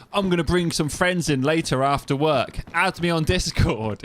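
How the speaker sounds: lightly imitated spam bot pitch; mock bot. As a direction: play an over-friendly chat bot. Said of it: "then they'll be like".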